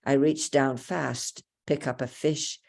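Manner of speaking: measured, deliberate poetry recital; unhurried poem narration in short phrases; poem reading. Acted. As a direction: read each image out with care. Reads own poem aloud.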